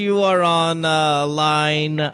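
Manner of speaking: slow, drawn-out announcer read; radio host intro. Acted. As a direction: announce the caller slowly. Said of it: "introducing caller radio style".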